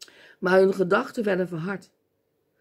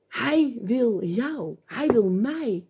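slow emphasis; much slower than usual. Real, not acted. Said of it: "slow emphatic preaching".

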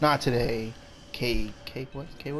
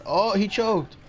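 excited gloating; 5 semitones higher, slower than usual. Real, not acted. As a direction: gloat over the miss, high. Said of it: "No, J K".

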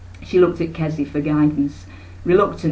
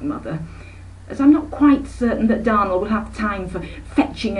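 higher, fussy society aunt; airy aunt; 4 semitones higher than usual. Acted. Aunt Emma lectures her sister about the carriage. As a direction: brushes off the request with airs.

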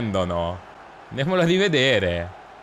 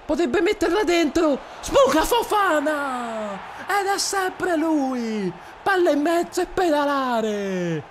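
much higher, squeaky play-by-play; Mickey Mouse voice; 14 semitones higher than usual. Acted. Streamer commentating his game in a squeaky Mickey Mouse voice. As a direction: call the match in a cartoon mouse squeak. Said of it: "voce alla Topolino".

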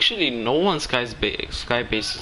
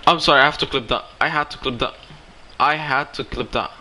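excited; 3 dB louder than usual. Real, not acted. Excited after big play.

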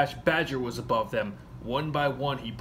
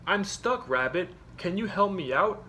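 little hedgehog voice; 6 semitones higher than usual. A narrator's reading. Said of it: "a little voice shouted back".

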